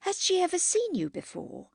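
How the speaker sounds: high-pitched guileless query; innocent. A narrator's reading. Margaret asks whether Henry knows the woman, innocently. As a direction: lift it up as an artless question. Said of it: "said Margaret innocently".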